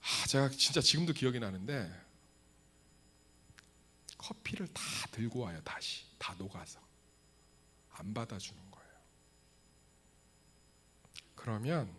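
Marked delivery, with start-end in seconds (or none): 4.2-8.9 dejected whisper. Acted. Sad punchline whispered low.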